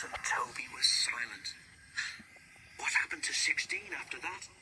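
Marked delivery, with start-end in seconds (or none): 2.8-4.5 venturing question. A narrator's reading. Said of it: "ventured Toby".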